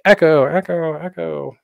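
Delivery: high repeats fading away; imitated echo. Presenter imitating people testing an echo, fading repeats. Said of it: "echo is more apparent. Everybody's like".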